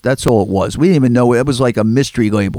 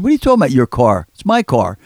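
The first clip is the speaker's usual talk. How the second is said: indignant protest; 3 semitones higher than usual. Retold or imitated. Arguing over the car.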